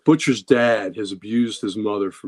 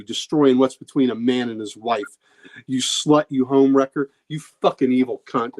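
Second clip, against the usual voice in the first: raging father; 3 semitones higher than usual. Retold or imitated. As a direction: spit the insults like a bitter old father. Father curses Becky and sons.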